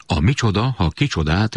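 quick, eager quiz recital with rising ends; a child proudly reciting his riddle; the boy poses his riddle to his father, eager and rising; eager recitation. Acted. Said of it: "s már szavaltam is".

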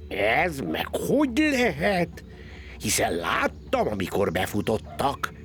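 lightly voiced scheming cat; puzzled cat. Cat wonders where they went, lightly voiced puzzlement.

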